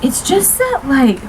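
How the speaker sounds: mock a guy she was dating; impression of an ex. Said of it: "This was a guy I was dating".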